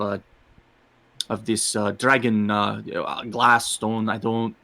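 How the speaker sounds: put-on lightly accented tabaxi, hesitant apology; apologetic cat-person. Tabaxi excusing himself to the cart owner's son, apologetically. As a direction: feel your way through an excuse. Player voices his tabaxi character.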